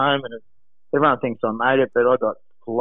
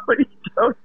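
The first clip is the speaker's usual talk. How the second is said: much higher, raised cry of disbelief; exasperated yell; 11 semitones higher, faster than usual. Retold or imitated. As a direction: fling it at him across the water. Retold shouting at caddy in surf.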